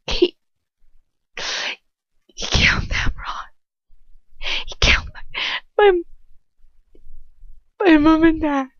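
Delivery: broken words building to a loud, high cry; girl telling Ron her parents were killed, sobbing to a scream. Acted. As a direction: fall apart and wail the last words. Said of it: "I scream with misery then".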